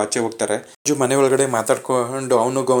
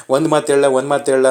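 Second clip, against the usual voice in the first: teasing sing-song parrot of his line, higher and louder; mocking imitation; 3 semitones higher, 5 dB louder, faster than usual. Wife teasing her husband by parroting his question, mocking and higher. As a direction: throw his words back at him, mockingly. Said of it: "ಇಷ್ಟೊಂದ್ ದೊಡ್ಡ dialogue ಕೇಳಿದ್ರಿ".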